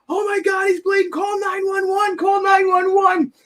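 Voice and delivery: high frantic shouting for help; panicked son screaming. Retold or imitated. Son screaming to call for help over bleeding father, panicked.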